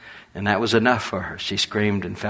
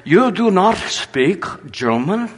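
surprised; 9 semitones higher, 6 dB louder, slower than usual. Retold or imitated. Woman surprised he speaks no German.

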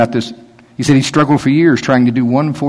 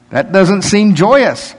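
wry; 7 semitones higher, 4 dB louder, much slower than usual. Pretend. Slow wry comment.

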